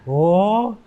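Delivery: slow, drawn-out wonder; mock amazed "oh"; imitated awed crowd. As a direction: stretch it like an astonished audience. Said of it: "they've never seen someone my size before".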